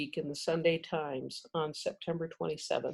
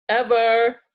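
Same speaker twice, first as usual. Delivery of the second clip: loud, higher, final word; emphatic refusal; 5 semitones higher, 10 dB louder than usual. A narrator's reading. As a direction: call out one last firm word through the door. Badger adds emphatic final refusal.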